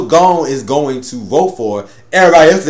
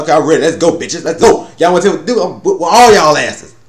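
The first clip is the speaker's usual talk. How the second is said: hyped up; 3 semitones higher, 4 dB louder than usual. Retold or imitated. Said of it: "He's like".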